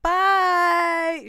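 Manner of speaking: high, loud, long-held goodbye; see her off with a gloating call; taunting farewell. Retold or imitated. Mocking farewell as she leaves.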